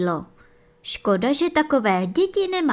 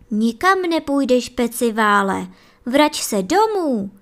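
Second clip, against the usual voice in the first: louder, firm motherly command; ordering; 2 semitones higher, 5 dB louder than usual. Acted. Mother hare ordering her lazy son home, firmly. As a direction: send him home with no room for argument. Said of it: "přikazovala maminka".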